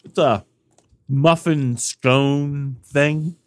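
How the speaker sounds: chewing while speaking; slow words through a bite; mouth full. Real, not acted. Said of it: "What are you munching on?".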